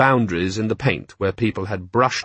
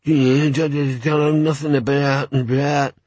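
stammering gnoll voice, pitched up; quick-talking gnoll; 4 semitones higher, slower than usual. A narrator's reading. Gnoll caught out by the officer, quick stammer. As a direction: stumble over it hastily as an odd creature. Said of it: "said the Gnoll quickly".

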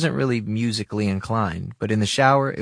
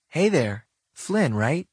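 higher, brighter friendly greeting; young woman voice; 6 semitones higher, slower than usual. Acted. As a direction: greet him cheerfully in a lighter voice. Narrator meets Mia, her greeting.

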